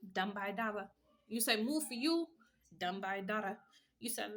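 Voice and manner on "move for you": quoted demand. Retold or imitated. Voicing the listener's demands.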